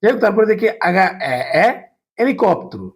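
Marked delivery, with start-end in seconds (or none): 2.2-2.8 হেলিকপ্টার said without the h, as "elikoptar"; silent h. Shown as a demonstration. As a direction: drop the h sound in হেলিকপ্টার. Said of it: "আগার উচ্চারণ নাই". (হ ছাড়া হেলিকপ্টার)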